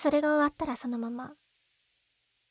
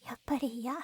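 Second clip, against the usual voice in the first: tearful refusal; 2 semitones lower, 6 dB quieter, faster than usual. Acted. Refusing the marriage after a pause.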